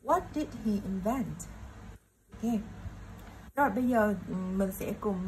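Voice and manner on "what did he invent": "what" stressed, then a beat on "vent" in "invent". Shown as a demonstration. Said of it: "mình sẽ gạch ở chữ invent". (nhấn "what" và âm hai của "invent")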